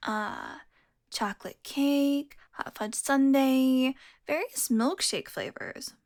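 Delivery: slow, drawn-out list reading; browsing aloud. Acted. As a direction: stretch each item while scanning the menu. Reading menu aloud while browsing.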